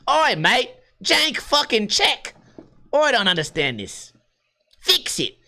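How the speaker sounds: high mock Aussie complaint; Australian accent. Shopper disputing a wrong bill, high mock Australian accent. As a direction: protest like a cartoon Australian. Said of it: "love my Australian accent".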